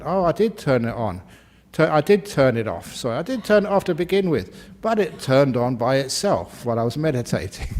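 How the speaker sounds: mock-defensive, pitch jumping up on the apology; protesting excuse. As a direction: plead innocence as a flustered phone owner. Acted excuse of phone owner.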